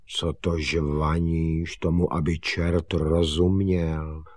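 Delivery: slow, monotone grumble; mildly grumpy, dragging complaint; grumbling father. Acted. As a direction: grumble it out slowly. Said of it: "bručel tatík".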